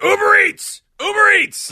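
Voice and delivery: very high, loud, commanding police-style shout. Retelling turning around on a stranger: imitating police yelling. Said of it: "like the police yelling".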